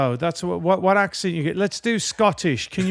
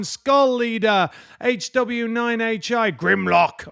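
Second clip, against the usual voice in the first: slow, measured roll call of names; shout-out list reading; 2 semitones higher, slower than usual. Acted. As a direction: read out the member names, each one distinct. Reads member names aloud.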